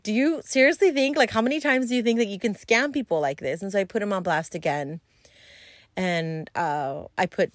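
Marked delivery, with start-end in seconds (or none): 0.0-3.6 incredulous. Retold or imitated. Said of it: "And I was like".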